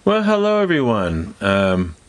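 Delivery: congested nasal voice from allergies; stuffed up nose. Real, not acted. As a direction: speak through a blocked nose. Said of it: "I apologize for my stuffed up nose voice".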